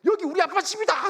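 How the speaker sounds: high, loud proclamation; worked-up shout. Retold or imitated. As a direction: re-enact an excited yell in a quarrel. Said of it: "그러니까 저도 흥분했어요". (흥분해서 외치듯)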